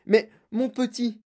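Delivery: high, drawn-out delighted burst; explosive exclamation. A narrator's reading. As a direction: burst out with joy. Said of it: "monsieur Wonka explosa".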